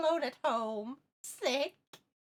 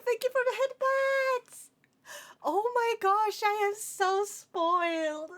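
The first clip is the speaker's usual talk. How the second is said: breathy cutesy giggly; 7 semitones higher than usual. Real, not acted. Overwhelmed by viewer gifts.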